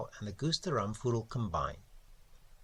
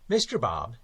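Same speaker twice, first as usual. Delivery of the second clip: put-on louder, pompous old editor; fussy elderly editor, louder; Mister Crabbe; 5 dB louder than usual. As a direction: hail the young man grandly. Editor Crabbe speaks to narrator.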